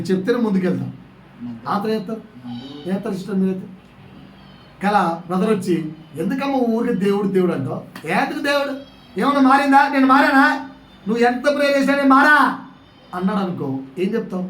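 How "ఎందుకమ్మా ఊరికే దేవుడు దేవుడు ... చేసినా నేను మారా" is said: taunting husband. Retold or imitated. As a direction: scoff at her prayers. Brother taunting praying sister.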